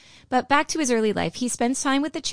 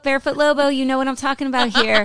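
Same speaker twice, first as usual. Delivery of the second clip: calling out; 5 semitones higher, 8 dB louder, faster than usual. Real, not acted. Calling out to a fan.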